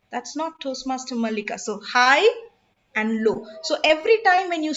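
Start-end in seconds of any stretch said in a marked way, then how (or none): 0.1-1.6 softer, dropped-down correction; low pitch. Shown as a demonstration. Trainer corrects the greeting to show low pitch, soft and low. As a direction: bring the voice down low. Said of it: "and low you can go".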